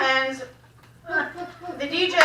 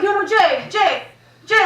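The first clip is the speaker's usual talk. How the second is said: urgent; 4 semitones higher than usual. Retold or imitated. Urgently getting Jay's attention on stage.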